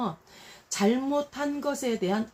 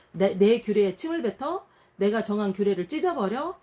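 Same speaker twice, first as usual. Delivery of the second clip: louder outraged questions; indignant; 4 dB louder than usual. Retold or imitated. God voiced rebuking disobedience, indignant. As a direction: demand it in disbelief. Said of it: "하나님도 막 막말해".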